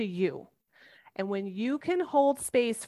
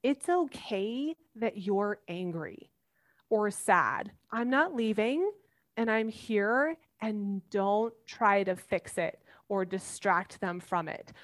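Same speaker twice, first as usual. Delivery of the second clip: calm and reassuring. Shown as a demonstration. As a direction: soothe an angry child without rushing. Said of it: "to stay calm and say".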